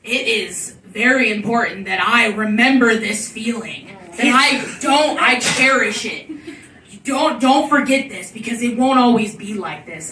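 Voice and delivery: lightly voiced lecturer, emphatic phrases; imitating a stoned friend's insistent lecture; imitated earnest lecture. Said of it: "this man is lecturing me".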